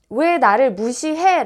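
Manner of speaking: half-acted flare of offended anger; a taste of the indignant "why do you ignore me"; retold angry protest. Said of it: "라고 화를 내고".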